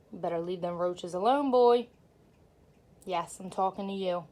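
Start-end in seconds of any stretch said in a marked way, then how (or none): 0.1-1.9 firm scolding, last word louder; stern warning. Real, not acted. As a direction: warn the cat off, firmly. Warning cat off roaches.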